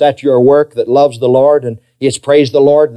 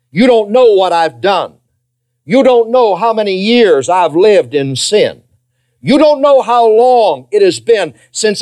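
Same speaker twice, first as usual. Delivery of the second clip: acted protest of unworthiness, building higher; despairing sinner; 3 semitones higher than usual. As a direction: draw out each confession, insisting to the pastor. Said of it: "somebody in this congregation tonight that would say".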